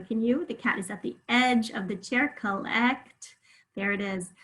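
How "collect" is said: Collect split as "cuh-lect"; clear short E. Shown as a demonstration. Teacher lets pupils hear the short E, clear short E. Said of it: "I can hear that short E sound very clearly".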